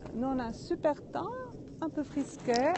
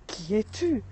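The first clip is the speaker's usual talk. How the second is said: put-on boy calls out toward the mountain, a touch louder; calling out; 5 dB louder than usual. Boy calling into the forest, mildly raised. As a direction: call the question out to the unseen voice. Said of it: "il crie".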